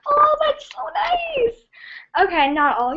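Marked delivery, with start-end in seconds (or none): 0.1-1.6 family imitation. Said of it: "they were all like".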